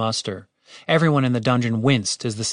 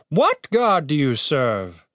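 challenging question; 3 semitones higher, slower than usual. A narrator's reading. Captain questions the cleric.

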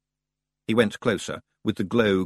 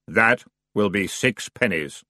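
slow, flat-toned boatman; grim toll demand; dour ferryman; slower than usual. Acted. The ferryman asks Roland for his fare, dour.

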